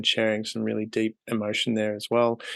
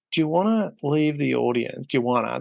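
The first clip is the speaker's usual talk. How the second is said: Australian accent; 2 semitones higher than usual. Real, not acted. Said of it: "that's my, um, Australian accent kicking in there".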